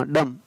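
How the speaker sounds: डम ending on m, no b; डम, dumb without b; silent b. Shown as a demonstration. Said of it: "ड एम का म".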